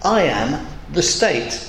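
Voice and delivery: slow, grand I am the state; a lightly voiced proud king, slowly; proud king quoting. Preacher quoting Louis the Fourteenth's boast, slow and grand. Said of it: "famous statement by saying".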